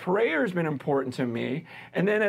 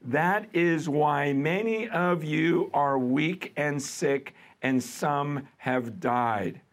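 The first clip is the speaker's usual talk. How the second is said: scripture reading. Acted. Reads scripture passage aloud.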